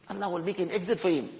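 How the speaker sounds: softly repeated. Shown as a demonstration. Repeats the line for emphasis.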